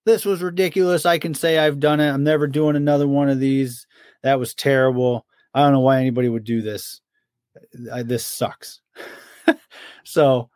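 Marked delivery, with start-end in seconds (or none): 0.1-8.8 imitating the Jackal griping after a marathon; imitating whiny friend. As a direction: whine it like a sore runner fed up after a marathon. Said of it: "he's like".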